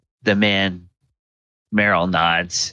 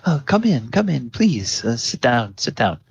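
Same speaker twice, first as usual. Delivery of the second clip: welcoming priest; 4 semitones higher than usual. Acted. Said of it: "Father Baldwin says".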